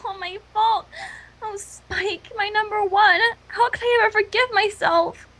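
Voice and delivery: mock tearful sobbing, breaking on the words; hammed-up guilt-stricken crying; sobbing Twilight. Twilight blaming herself over Spike, mock sobbing. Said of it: "She dissolved in helpless, choking sobs".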